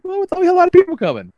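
high, fast mock family voice. Host mocking relatives about the second turkey, high and fast. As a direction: squeak it out fast, mocking their excuse.

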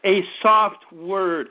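slow, low, gentle repeat; soft word again. Shown as a demonstration. Preacher repeating to congregation, slow gentle soft word. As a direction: let the "soft" linger softly. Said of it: "A gentle voice turns away wrath".

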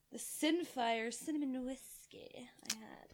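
slow whisper. Real, not acted. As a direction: whisper it to the side. Points out a bottle.

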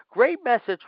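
high mocking "great message"; sarcastic praise. Real, not acted. Ranting fan mocks Vince's booking with sarcastic praise. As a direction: sneer it like fake praise. Sarcastic rant at WWE bookers.

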